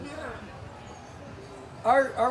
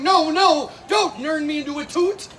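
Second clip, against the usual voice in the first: husband yelling; 4 semitones higher, 5 dB louder than usual. Acted. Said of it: "He's yelling".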